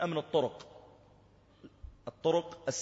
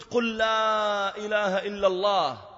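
higher, louder, slow pleading; urgent plea; 8 semitones higher, 7 dB louder, slower than usual. Retold or imitated. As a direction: drag each word out to reach him. Officer urging dying youth. (رجاء ملحّ بطيء)

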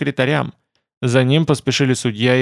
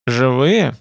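interested question. Acted. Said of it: "с несомненным интересом переспросил он".

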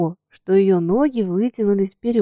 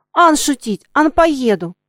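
higher, louder ringing cry; ringing shout; 5 semitones higher, 5 dB louder than usual. A narrator's reading. Katka shouting after the coachman. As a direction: shout it clearly after him. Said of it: "звонко кричала Катька".

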